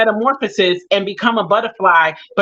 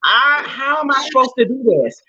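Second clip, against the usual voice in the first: retold anguished plea; 4 semitones higher than usual. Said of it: "I was like".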